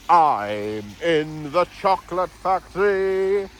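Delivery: put-on Scottish accent. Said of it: "I'm Scottish, you know".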